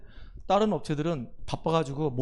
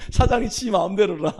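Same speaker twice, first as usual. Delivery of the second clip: laughing remark; 3 semitones higher, 5 dB louder than usual. Real, not acted. Laughing about the wilful contractor.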